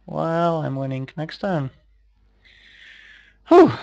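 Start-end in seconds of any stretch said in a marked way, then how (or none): 3.5-3.7 high exhaled whew; relieved whew. Real, not acted. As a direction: let out a quick, loud whew of relief. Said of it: "that was intense".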